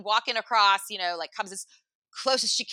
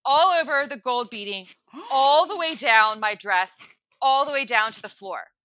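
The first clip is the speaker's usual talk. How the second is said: drawn-out, emphatic storytelling; slow, loud dramatic build; slow motion; 4 semitones higher, 5 dB louder than usual. Real, not acted. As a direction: stretch each phrase for drama, pausing between. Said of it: "in slow motion".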